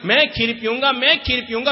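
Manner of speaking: high, loud mock child's whining; wailing child. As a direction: whine like a stubborn little boy. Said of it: "जोर जोर से रोने लगा".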